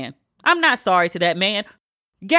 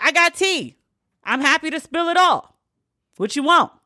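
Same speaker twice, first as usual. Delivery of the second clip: higher, eager voice offering gossip; 7 semitones higher than usual. Retold or imitated. Gabrielle gleefully offering to spill everything, eager gossip. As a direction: hand over the tea with relish.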